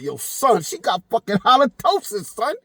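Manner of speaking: imitating his friend. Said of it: "He was like".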